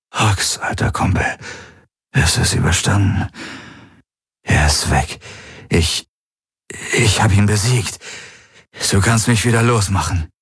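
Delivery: a lightly voiced possessing entity, falsely friendly; strange false voice. A narrator's reading. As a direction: coax him with a hint of an alien voice. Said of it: "mit Wunderstimme".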